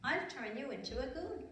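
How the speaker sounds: fairy voice. Acted. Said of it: "and she said".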